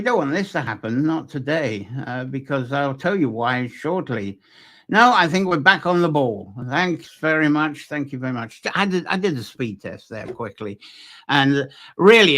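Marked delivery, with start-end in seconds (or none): 4.9-10.8 breathless after running; out of breath. Real, not acted. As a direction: talk while catching your breath. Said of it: "you can tell I'm a bit out of breath".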